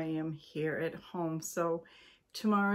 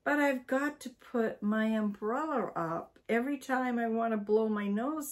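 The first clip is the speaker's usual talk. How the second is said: alarmed; 3 semitones higher than usual. Acted.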